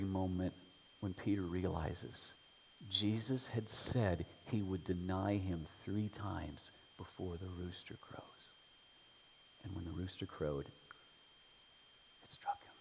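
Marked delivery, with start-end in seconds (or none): 2.9-12.7 slow, soft whisper; narrating Peter's dread, slow whisper; hushed realization. A narrator's reading. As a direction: whisper it as the truth sinks in.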